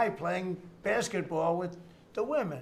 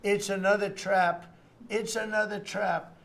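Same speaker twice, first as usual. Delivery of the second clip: loud, higher mock scream in alarm; raised-voice impression of a frantic warning; imitating screaming; 3 semitones higher, 6 dB louder than usual. Democrat consultant screaming at his party not to fall for it, mock screaming. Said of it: "And he was screaming".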